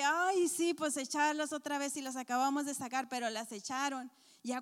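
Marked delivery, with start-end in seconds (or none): 0.0-3.1 sarcastic grumble. Acted.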